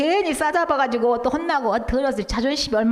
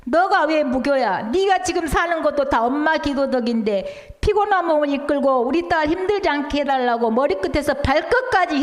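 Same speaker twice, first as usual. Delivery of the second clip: retold shouting; 3 semitones higher than usual. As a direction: scold the daughter with rising heat, a bit higher. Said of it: "크고 아주 크게 아주 소리 지르면서".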